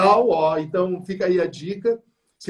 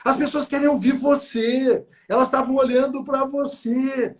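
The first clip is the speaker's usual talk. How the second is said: reassuring, firm advice; 7 semitones higher than usual. Retold or imitated. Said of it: "Eu disse".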